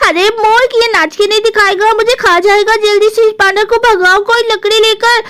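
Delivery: a touch of scolding alarm; exasperated, frightened sister. Acted. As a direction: urge little brother to the rescue.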